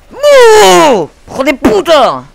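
high, loud startled curse; angry shout. Real, not acted. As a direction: curse at the camper. Le sorprende el campero. (insulto a gritos)

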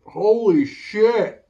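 slow, gasping through burning mouth; drawn out, reeling from the heat; mouth burning from spicy food. Real, not acted. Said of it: "My tongue is on fire".

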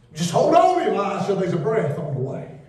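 shouted encouragement in the pulpit; fervent encouragement. Acted. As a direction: lift them up with it. Preacher encouraging.

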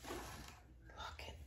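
slow, hushed whisper. Real, not acted. Vlogger whispering to viewers over a gift. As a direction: breathe it out in awe, slowly.

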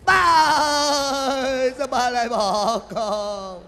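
slow, drawn-out hammed-up lament; mock wail. Hired mourner wailing as the guest passes. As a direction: stretch the cry out.

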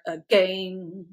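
"Again" with the weight on "gain"; accent on GAIN. Shown as a demonstration. Explaining accenting to viewers, "Again" stressed on the second syllable. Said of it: "put the accent on the gain".

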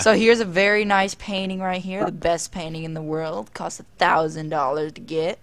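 put-on drawled tour-guide accent. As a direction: show guests around in a put-on accent. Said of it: "speaking in this accent".

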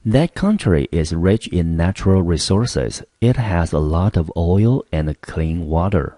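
clear, careful read of the example sentence; model sentence read. Shown as a demonstration. Teacher reads the example sentence aloud to students. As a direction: read it out slowly for learners. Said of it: "reads the example sentence".

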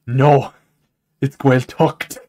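imitating a mildly annoyed Scot's correction; mock indignation. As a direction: correct them firmly, "Gaeltacht" with a final t. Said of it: "he got mad at me".

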